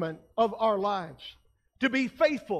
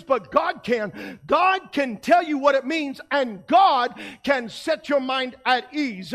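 preaching; slower than usual. Acted. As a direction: proclaim it slowly to the church.

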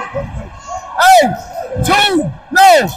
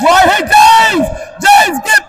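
calling from far away; 4 semitones higher than usual. Real, not acted. Coach yelling across the court.

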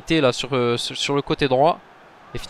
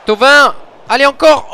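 yelling a player's name, much higher and louder; excited shout; 11 semitones higher, 10 dB louder than usual. Real, not acted. Gamer yelling at his striker on screen, excited shout. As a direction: cheer him on at full voice. Urging striker during a chance.

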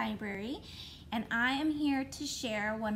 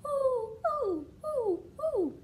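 owl hoot; 11 semitones higher than usual. Pretend. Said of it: "That is what they say".

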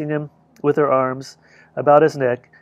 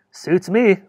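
whispered offhand reply; 3 semitones higher than usual. Acted. Smith answering Chafee, whispered. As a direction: breathe it, no voice at all.

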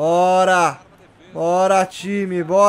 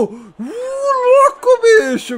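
surprised; 11 semitones higher, much slower than usual. Real, not acted. Near miss, shocked outcry.

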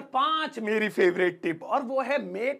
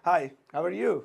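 slow and clear; 5 semitones lower, much slower than usual. Shown as a demonstration. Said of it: "जैसे आपको बोलना है".

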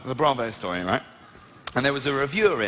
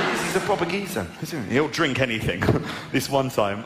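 ordinary delivery

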